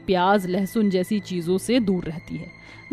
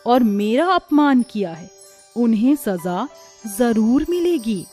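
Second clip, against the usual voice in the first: benevolent goddess. Acted. Goddess appears and speaks.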